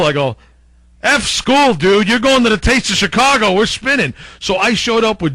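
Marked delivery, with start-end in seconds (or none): 1.0-4.1 louder, higher push, half-shouting the retold line; loud retold urging. To the teen in pajamas, a loud pushy retold urging. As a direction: egg him on like a pushy older friend.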